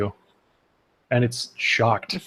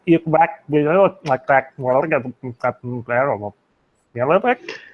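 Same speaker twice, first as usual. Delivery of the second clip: lightly voiced drunk mumbling, words smeared together; slurred drunk babble; slower than usual. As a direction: mumble it like a drunk who cannot finish a thought. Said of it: "what you are hearing is more like".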